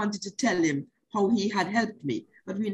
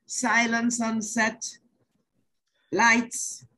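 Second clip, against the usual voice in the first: slow, lightly raised director's call; measured countdown to filming, a touch higher; director's set call; 3 semitones higher, slower than usual. Retold or imitated. Director to nervous actress before the take, slow retold set call. Acting out director calling the shoot.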